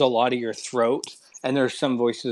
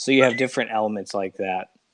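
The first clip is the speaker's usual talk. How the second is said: normal talking voice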